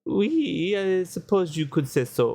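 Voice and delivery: lightly put-on French accent, café owner voice. Café owner telling the lawyer what happened, light French accent. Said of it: "I hate doing the accent".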